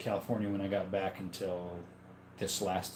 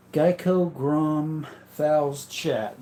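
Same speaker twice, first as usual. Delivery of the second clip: Geico voice; 5 semitones higher, 6 dB louder, much slower than usual. Retold or imitated. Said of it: "Nice Geico impression".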